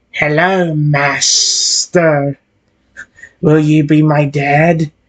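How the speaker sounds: put-on, very slow, drawn-out snake voice. Telling a story, voicing a snake's lines in a put-on snake voice. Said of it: "I'm really doing a damn snake voice for this".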